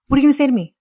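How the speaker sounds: defiant challenge. Real, not acted. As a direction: throw it out as a dare. Rhetorical challenge.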